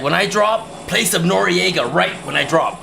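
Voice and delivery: high, slowed pleading voice; eager request. Retold or imitated. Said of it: "I was like".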